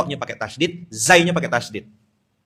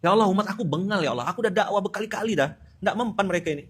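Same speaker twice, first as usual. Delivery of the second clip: higher, sulky whining to God; mock whiny complaint; 6 semitones higher, faster than usual. Prophet Yunus complaining to Allah about his people, whiny. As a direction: play a fed-up prophet griping. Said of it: "Kalau Nabi Yunus mau baper".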